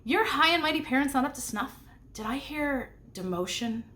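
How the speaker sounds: mocking taunt about his parents. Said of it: "Crowley touted".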